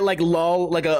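ordinary talk

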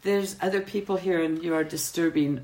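put-on reproving French-accented waitress. Waitress scolding a disruptive customer, French accent. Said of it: "my French was impeccable".

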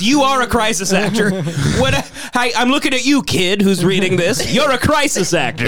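mock accusation. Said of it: "He goes".

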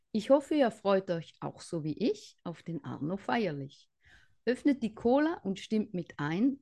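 greeting rhyme. Shown as a demonstration. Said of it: "jetzt kommt meine Begrüßung".

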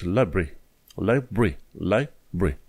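"library" as "lai-bri", two syllables; shortened library. Shown as a demonstration. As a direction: squeeze "library" into two beats. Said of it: "zici library".

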